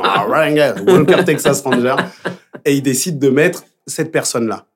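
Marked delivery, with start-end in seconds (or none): 0.0-2.0 lightly hammed-up Texas twang through laughter; mock Texan accent. Singer teasing about his American replacement, mock Texan accent. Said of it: "un Texan, avec le vrai accent".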